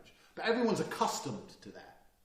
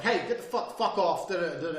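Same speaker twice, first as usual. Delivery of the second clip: aggressive warning; 3 semitones higher, 5 dB louder than usual. Acted. Man warning off three attackers, aggressive. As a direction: act out a loud confrontational brush-off. Demo of aggressive first stance.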